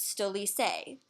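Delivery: "stolice" said as Serbian STO-lee-tseh; Serbian plural. Shown as a demonstration. Teacher shows students the Serbian word for chairs, Serbian pronunciation. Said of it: "for chairs".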